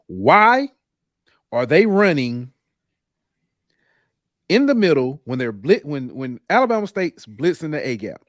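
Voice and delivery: retelling a friend's impatient sideline question, loud and incredulous; exasperated coach's question. Retold or imitated. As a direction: fire the question like an irritated football mind. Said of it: "He ain't say it like that, but he said it like that".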